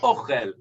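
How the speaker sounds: OCHEL with the weight on the O; correcting with "ochel", first syllable stressed. Shown as a demonstration. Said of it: "emphasis is on the first part".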